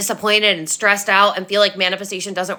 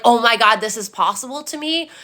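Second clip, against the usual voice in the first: mock excitement. Quoting an excited realisation.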